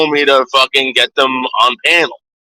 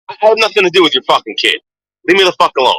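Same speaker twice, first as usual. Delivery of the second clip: raised, higher heated outburst; real angry rant; 5 semitones higher, faster than usual. Real, not acted. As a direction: snap it at the parent, fed up. Angry rant at a kid's parent.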